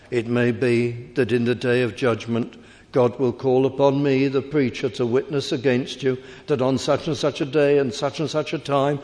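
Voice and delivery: solemn open-air preaching, imitating an old evangelist; building a solemn testimony before the crowd; old preacher's warning. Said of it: "He used to preach like this".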